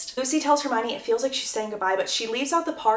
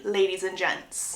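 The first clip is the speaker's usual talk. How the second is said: plain reading voice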